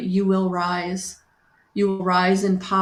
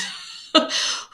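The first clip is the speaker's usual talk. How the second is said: breathy shaky laugh through tears; tearful laugh. Real, not acted. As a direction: laugh off the emotion. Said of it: "I'm shaking".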